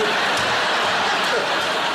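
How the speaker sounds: high wheezing hyena giggle; unvoiced cackling hyena laugh. Shown as a demonstration. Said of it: "That's a good hyena".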